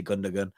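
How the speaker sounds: Gundogan as "GUN-duh-gun"; hard g in the last syllable of Gundogan; common mispronunciation. Retold or imitated. Quoting close mates, mispronounced. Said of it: "they say".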